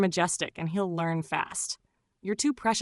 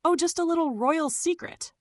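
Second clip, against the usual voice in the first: playful wink; 9 semitones higher than usual. Pretend. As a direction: let it sparkle like a shared secret. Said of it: "wink and say".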